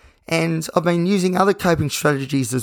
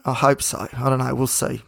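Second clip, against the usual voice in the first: hoarse, worn-out voice from singing. Real, not acted. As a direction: speak with a raspy, tired throat. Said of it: "the reason for my hoarse voice".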